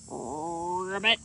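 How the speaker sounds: a sad little ribbit; sad frog croak. A narrator's reading. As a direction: croak it sadly like a lonely frog. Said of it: "The frog sounded sad".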